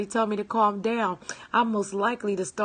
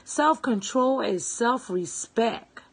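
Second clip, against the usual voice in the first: slower, each word given weight; slow savoring repeat; 3 semitones higher, slower than usual. Shown as a demonstration. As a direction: let Self-control is self-respect land slowly. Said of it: "Don't you like that?".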